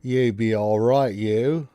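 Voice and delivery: smitten brute. Acted. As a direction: coo at her like a lovestruck oaf. Guard charmed by bard.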